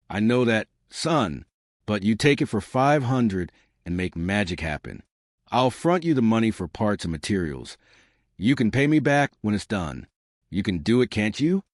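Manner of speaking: put-on light Texas accent, easy and unhurried; old vet with a slight Texas drawl. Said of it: "that slight Texas drawl".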